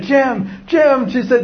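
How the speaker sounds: high-pitched excited woman, imitated; mock breaking-news eagerness. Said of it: "She's all excited".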